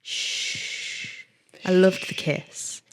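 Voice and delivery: low, measured narration; book reading aloud. A narrator's reading. Reading a steamy book passage to the co-host, measured narration.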